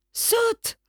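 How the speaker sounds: brother's high call to jump; shouted urging. A narrator's reading. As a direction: urge him to jump, calling up. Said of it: "crie mon frère".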